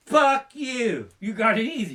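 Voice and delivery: mock resentment. Real, not acted. Jabs at musicians.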